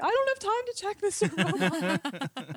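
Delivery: hammed-up panic, pitched high and drawn out; mock-panicked wail breaking into a laugh; freaking out. Player facing the roll countdown, mock freaking out. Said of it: "I'm, like, freaking out".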